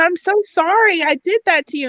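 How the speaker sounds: put-on play-acted sobbing, high tearful child's voice. Retelling a first grader's apology to a friend, imitating a crying child.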